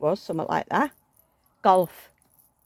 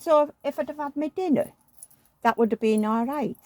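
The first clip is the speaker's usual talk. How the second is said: imitating husband; 8 semitones higher than usual. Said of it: "He said".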